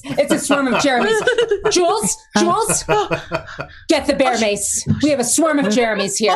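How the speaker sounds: high, urgent newsroom alarm; mock panic. Anchor calling to the crew about the Jeremy swarm, mock panic. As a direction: yell to the crew for the bear mace, half-joking.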